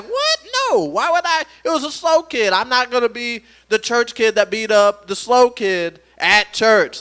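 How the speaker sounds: high, loud rush of objection; incredulous protest. Retold or imitated. Son defends himself to dad, loud and incredulous.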